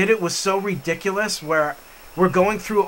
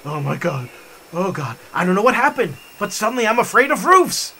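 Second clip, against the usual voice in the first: nervous; 3 dB louder than usual. Retold or imitated. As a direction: start small and rise into mock dismay. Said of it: "I get nervous".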